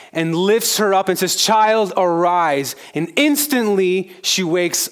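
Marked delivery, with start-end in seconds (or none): 1.4-2.8 raised, ringing command; Jesus voiced raised and ringing, calling the dead girl to rise. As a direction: call her back to life.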